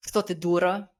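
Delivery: sharp retold scold in Russian; harsh Russian scolding. Mom scolding her daughter in Russian, harsh retold scold. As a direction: bark it like a scolding mother. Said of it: "like, in Russian".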